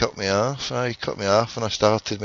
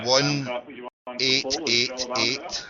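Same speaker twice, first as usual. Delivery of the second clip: number given very slowly, digit by digit; slow dictation; 2 semitones higher, 4 dB louder, much slower than usual. Real, not acted. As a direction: spell out the digits slowly for someone writing. Dictating phone number to station.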